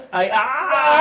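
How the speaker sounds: high-pitched mock cry; playful, put-on squeal through laughter; grito fingido. Bromea imitando gritos en el baño. (quejido agudo fingido)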